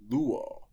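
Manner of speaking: luo with a strong, drawn-out first syllable; luo, accented on lu, second syllable falling away; stress on the penult. Shown as a demonstration. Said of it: "with an acute accent on the penult".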